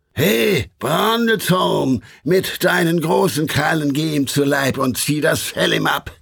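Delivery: devils roaring. Acted. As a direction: roar it out like a mob of devils. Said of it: "Einstimmig brüllten's die verfluchten Kerle".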